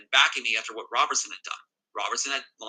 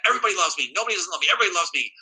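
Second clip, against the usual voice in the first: mimicked rage; 5 semitones higher, 4 dB louder, much faster than usual. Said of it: "raging at me in a manic rage".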